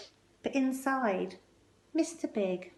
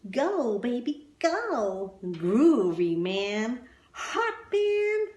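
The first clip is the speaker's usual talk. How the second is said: excited jazz fans, high and loud; hammed-up hipster cheering; crowd calling out; 4 semitones higher, 4 dB louder, much slower than usual. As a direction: cheer him on like a club crowd. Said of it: "the audience were calling out".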